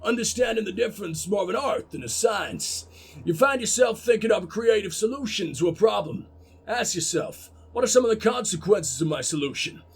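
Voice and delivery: lightly put-on gruff American coach; attempted American gruff. Coach lecturing the team, attempted gruff American accent. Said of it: "Can I do American gruff?".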